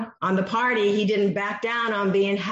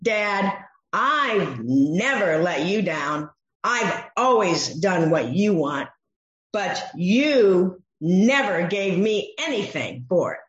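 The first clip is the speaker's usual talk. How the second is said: aggrieved son. Retold or imitated. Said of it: "Here he's saying".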